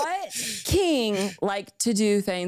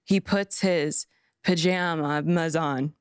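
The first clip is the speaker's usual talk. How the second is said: seductive voice; 3 semitones lower, slower than usual. Acted. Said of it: "she says it in, like, a seductive voice".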